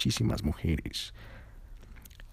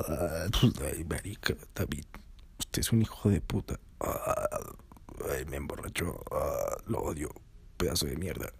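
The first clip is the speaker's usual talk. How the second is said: put-on slurred, low drunk girl rant; drunk friend; 5 semitones lower, 7 dB quieter than usual. Drunk friend slurring insults about her boyfriend, lightly voiced. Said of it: "toda borracha".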